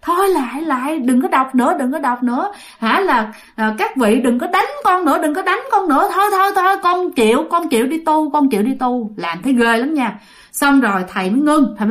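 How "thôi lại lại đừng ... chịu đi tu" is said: high, pleading mock wail; begging surrender. Possessed ghost begging monks not to beat it, high pleading. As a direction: plead for mercy, giving in.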